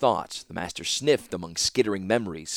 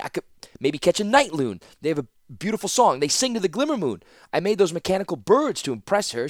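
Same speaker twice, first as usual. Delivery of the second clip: higher, fast tumbling confession; flustered rush of excuses; 9 semitones higher, 4 dB louder than usual. Acted. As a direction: blurt it all out nervously. Teferi blurting anxious excuses.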